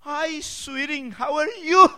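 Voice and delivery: high, sweet mock greeting; high playful sweetie voice; imitating the cashier. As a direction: coo it like the friendly cashier. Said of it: "esa morenita".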